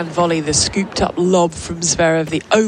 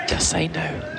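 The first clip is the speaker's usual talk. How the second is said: mock Aussie; 3 semitones lower, 7 dB quieter, slower than usual. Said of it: "no, she doesn't sound like that".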